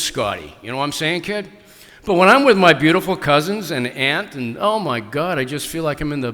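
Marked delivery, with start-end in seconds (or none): 0.0-1.5 put-on Louisiana accent. Author teasing audience member Scott, in a light Louisiana accent. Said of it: "I grew up with people who talk like this".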